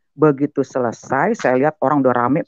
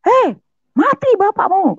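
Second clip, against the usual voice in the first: high-pitched, loud retold yell; teriakan ibu; 5 dB louder, slower than usual. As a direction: imitate a mother shouting in alarm. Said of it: "Sampai ibu saya teriak". (menirukan ibu berteriak)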